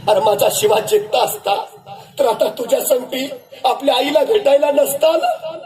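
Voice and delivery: a mother who already knew her son was dead; old mother. Acted. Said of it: "आई म्हणाली". (खालच्या स्वरात बोलणारी दुःखी आई)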